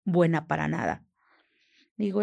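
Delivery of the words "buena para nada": imitated angry scolding, raised at first; retold anger. Man coming out over a broken glass, retold anger. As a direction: quote an angry man's accusing outburst. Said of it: "Sale bien enojado y me dice".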